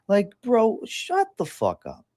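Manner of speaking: high, exasperated burst of disbelief; exasperated outburst. Real, not acted. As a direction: blurt it out, fed up.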